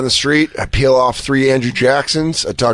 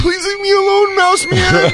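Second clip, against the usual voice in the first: hammed-up frightened begging; mock panicked plea. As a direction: plead with the mouse man. Pleading with the mouse, mock panic.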